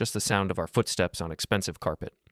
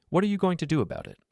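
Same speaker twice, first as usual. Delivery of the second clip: taunting; 10 semitones higher, faster than usual. Acted. Taunting husband.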